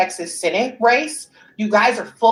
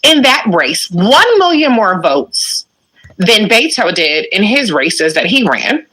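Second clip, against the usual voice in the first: louder, pressing every fact; heated rant; 7 dB louder than usual. Real, not acted. Ranting at critics over the Texas Senate race, loud. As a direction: hammer each number home, fed up.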